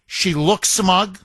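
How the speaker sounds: usual speaking voice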